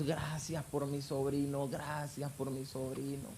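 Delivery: slow, soft murmured thanks; aunt's grateful prayer. Retold or imitated. Aunt embracing her nephew, thanking God, slow and soft. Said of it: "me abrazó y solamente decía".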